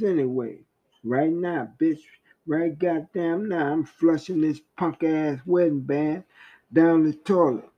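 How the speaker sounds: fast, spiteful cursing tirade; mild mock rage, rushed then dragged; voice of anger. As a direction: hurl insults at the wife. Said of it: "That's what anger said".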